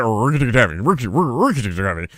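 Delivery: stuttered, slurred "Rikki Tikki Tavi"; Clay's mangled pronunciation. Retold or imitated. Friend repeating it when people ask what, "Rikki Tikki Tavi" garbled. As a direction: trip over "Rikki" and mush "Rikki Tikki Tavi" together. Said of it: "Clay couldn't really say Rikki Tikki Tavi well".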